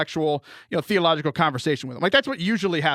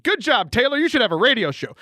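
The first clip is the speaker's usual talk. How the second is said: mock self-congratulation; 4 semitones higher than usual. Mocks himself after stumbling.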